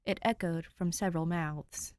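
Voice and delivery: steady read-aloud storytelling voice; calm narrator reading a fanfic to listeners; story narration. A narrator's reading. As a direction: read it like a bedtime chapter.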